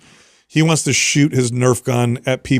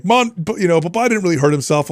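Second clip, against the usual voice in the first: put-on higher childish protest voice; imitating his son; 4 semitones higher than usual. Son telling mom dad isn't hurt, high child voice. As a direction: play the doubting four-year-old. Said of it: "and he's like".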